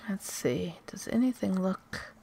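whispering. Real, not acted. Whispering while sneaking.

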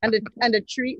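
put-on playful Jamaican accent; hammed-up Jamaican "tree". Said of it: "we're terrible with the Jamaican accents".

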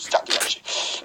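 breathy whisper under the breath; whispered aside. Real, not acted. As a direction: mutter it to yourself. Muttered aside in commentary.

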